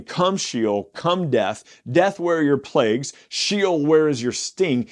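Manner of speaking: inviting. Shown as a demonstration. God calling death to judge his people, summoning. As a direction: beckon death to come. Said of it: "He is inviting them".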